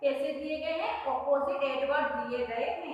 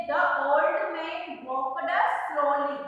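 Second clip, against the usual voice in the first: very slow, word by word; careful classroom read-aloud; much slower than usual. Shown as a demonstration. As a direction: read the sentence slowly for the children to follow. Reads the exercise sentence aloud.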